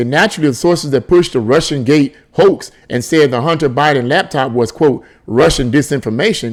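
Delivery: ordinary delivery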